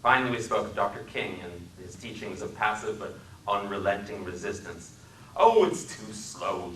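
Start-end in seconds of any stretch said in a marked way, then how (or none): 5.3-6.7 impatient dismissal. Acted.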